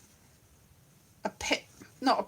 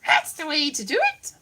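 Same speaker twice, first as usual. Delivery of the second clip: failed Punch voice; 3 semitones higher than usual. Retold or imitated. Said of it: "It's like / I can't do the Punch voice".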